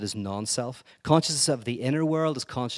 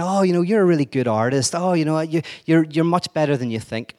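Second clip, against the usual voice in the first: mock sugary praise, higher and louder; sickly sweet; 4 semitones higher, 4 dB louder than usual. Two mean girls fake-praising the bad artist, sickly sweet. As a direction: pile on the fake compliments, syrupy. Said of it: "they become sickly sweet".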